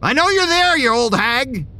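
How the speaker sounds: high shout through a neighbour's door. Acted. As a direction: yell at the missing old woman. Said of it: "I shouted".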